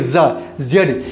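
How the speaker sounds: z drawn out slow and low, zzz; stretched z demo. Shown as a demonstration. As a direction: hum the z sound slowly. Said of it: "जेड का sound देगा".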